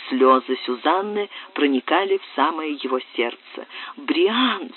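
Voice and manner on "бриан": имя «Бриан!» выдохнуто шёпотом; вырвавшийся сдавленный шёпот; вскрик шёпотом. Acted. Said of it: "вскричала вдруг Сюзанна". (Сюзанна вдруг окликает Бриана шёпотом)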